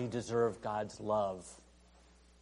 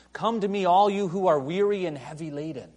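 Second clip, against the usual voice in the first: loud, high proclamation; ringing pulpit call; proclaiming call; 5 semitones higher, 7 dB louder than usual. Acted. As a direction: cry it out to the crowd. Jesus crying out.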